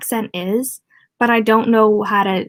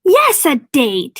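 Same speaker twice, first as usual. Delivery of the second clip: slow, high, louder hammed-up cry; mock scream; 5 semitones higher, 5 dB louder, much slower than usual. Richie on his knees declaring a date to Bev, hammed-up shout. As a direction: shout it like a melodramatic suitor. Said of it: "he screamed".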